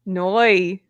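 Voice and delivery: Noi with the oi glide, got right; Northern Irish no. Shown as a demonstration. Learner repeats the teacher's Northern Irish no, correctly. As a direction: copy the Belfast noi carefully. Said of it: "That's it".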